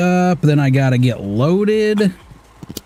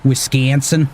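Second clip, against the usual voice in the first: Wisconsin accent; 3 semitones higher than usual. Shown as a demonstration. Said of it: "You can't escape that Wisconsin accent".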